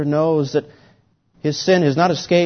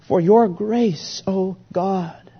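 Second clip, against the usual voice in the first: pleading prayer; 3 semitones higher, slower than usual. Acted. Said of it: "he says".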